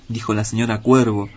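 ordinary delivery, nothing marked

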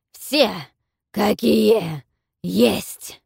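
loud, slow menacing roar; snarling dragon roar. A narrator's reading. Dragon snarls at Tyaru, roaring threat. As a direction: growl it out to make dragons flinch. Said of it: "и рыкнул так".

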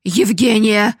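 loud, high, scornful yelling; father shouting at his wife and daughter; furious shout. Acted. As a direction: bark it all at them in rage. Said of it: "закричал он".

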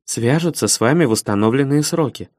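toneless machine-like operator; robot voice. Acted. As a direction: repeat it like a robot. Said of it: "тем же голосом робота повторила Алина".

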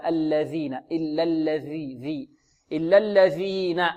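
الذين slowly, dhal with the tongue tip showing. Shown as a demonstration. Teacher correcting students' dhal, tongue tip out. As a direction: stretch إلا الذين, clear "th" on the dhal. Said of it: "لابد من إبراز طرف اللسان".

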